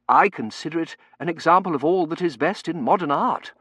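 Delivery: high, projected clerical pronouncement; earnest churchman holding forth; pompous curate. Acted.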